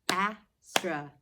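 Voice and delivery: Astronaut slow and loud, as-tro-naut; clapping Astronaut for the class; clapped syllables. Shown as a demonstration. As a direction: beat out Astronaut. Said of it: "Let's clap out".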